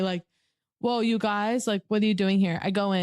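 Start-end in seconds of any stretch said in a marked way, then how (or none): 0.8-2.6 lightly voiced welcome, as to a wandering puppy; gently surprised mock greeting; greeting a stray puppy. Husband finds strangers in the room, lightly imitated puppy greeting. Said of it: "as if a puppy has wandered in".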